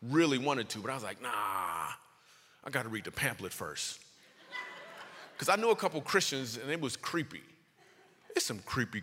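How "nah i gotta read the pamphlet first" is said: low, slow, drawn-out nah; reluctant refusal. Acted. Comic backing away from the altar call, reluctant. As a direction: back out slowly in a low, soft voice.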